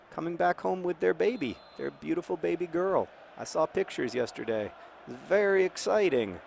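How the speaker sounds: sweetly doting, voice gone cute. Real, not acted. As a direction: go a little gooey about a newborn. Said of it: "I get my cute voice".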